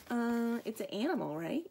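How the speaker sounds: hesitant guess, tipping up into a question; unsure guess. Acted. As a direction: guess cluelessly, checking at the end. Clueless character guesses in quotes.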